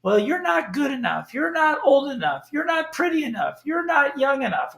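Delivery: lightly voiced doubting whisper of the mind; nagging inner voice. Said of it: "little voice in your head that says".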